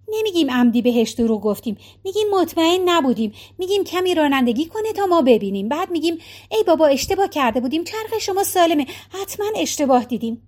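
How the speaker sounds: a touch of a worried wife; Maggie's voice. Acted. (صدای نگران مگی)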